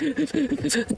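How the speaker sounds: high, soft mimicked sobbing breaths; imitated crying gasps. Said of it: "I'm profusely crying".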